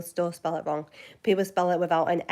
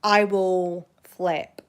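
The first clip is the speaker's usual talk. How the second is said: slow, louder warning; mock threat; 5 dB louder, much slower than usual. Real, not acted. Warning viewers, slow louder mock threat. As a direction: drag out the threat. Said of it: "if people call me Hannah".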